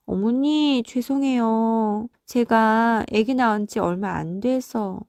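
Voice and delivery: slow, drawn-out, meek apology; apologetic daughter-in-law. Acted. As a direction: plead slowly for a mother-in-law's forgiveness. (시어머니께 느릿느릿 죄송스럽게 사과하는 며느리)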